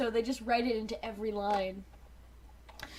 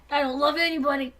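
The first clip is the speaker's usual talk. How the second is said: indignant shout; 2 semitones higher, 6 dB louder than usual. Acted. Rat Trap denying love.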